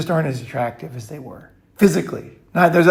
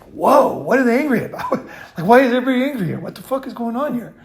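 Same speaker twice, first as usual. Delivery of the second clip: high, baffled mock disbelief; bewildered whoa; 7 semitones higher, faster than usual. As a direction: play the stunned newcomer, pitched up. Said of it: "And you're just like".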